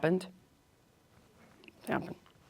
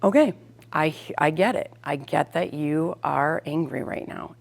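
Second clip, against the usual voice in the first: really mean it, gently; calm, genuine tone to an angry child. Shown as a demonstration. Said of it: "using that calm, genuine tone".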